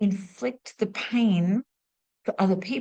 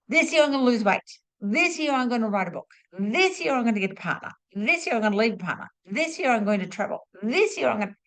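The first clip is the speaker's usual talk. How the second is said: eager resolution-making; 3 semitones higher, faster than usual. Retold or imitated. People listing their January resolutions, mock-determined. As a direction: rattle off vows in a repeating sing-song pattern.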